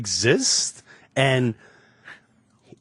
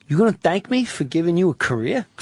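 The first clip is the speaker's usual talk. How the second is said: fast menacing tough-guy jab; Pesci impression; 3 semitones higher, faster than usual. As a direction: needle him like a wiseguy. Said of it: "He goes".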